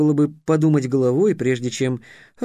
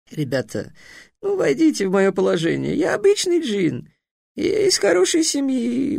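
humbled genie; 8 semitones higher than usual. A narrator's reading. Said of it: "куда менее высокомерным тоном".

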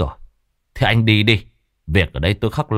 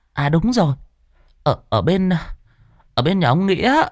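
put-on much higher old village woman's voice, hesitant then quick; a countrywoman thinking aloud, stammering, then rattling off names; chatty Bà Bảo; 10 semitones higher than usual. Bà Bảo answering the master about black dogs, high and chatty.

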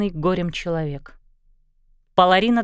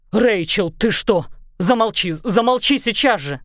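a raised, lightly voiced yell. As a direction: shout her down. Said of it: "заорал Дак".

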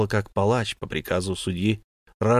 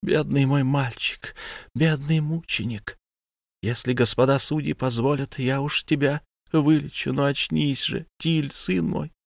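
tender murmuring; 5 semitones higher than usual. Acted. Mother murmurs over her injured son, tender lament. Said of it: "приговаривала".

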